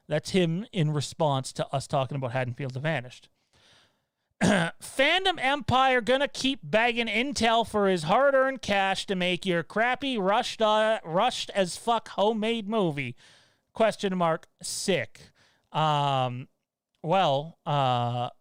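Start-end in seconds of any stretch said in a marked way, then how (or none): 4.4-15.2 high, slow, snide impression of the troll; mocking voice. Streamer reads a troll's comment in a mocking voice. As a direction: drag it out in a whiny high sneer. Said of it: "an interesting voice for him".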